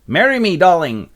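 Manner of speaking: high, loud mock proposal; eager suitor. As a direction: propose with hammed-up ardour. Acted proposal by Quincy Morris.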